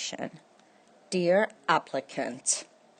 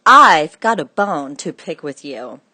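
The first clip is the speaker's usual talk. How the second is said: gruff butcher; 8 dB louder than usual. Acted. Angry butcher letter read aloud.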